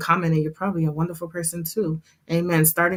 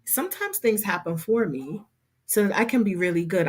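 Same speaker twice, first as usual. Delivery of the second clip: calm self-talk. Shown as a demonstration. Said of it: "just breathe and say".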